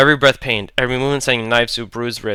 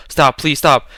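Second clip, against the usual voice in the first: screaming, voice cracking; 3 semitones higher, 5 dB louder, slower than usual. A narrator's reading. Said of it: "Athena screamed, voice cracking".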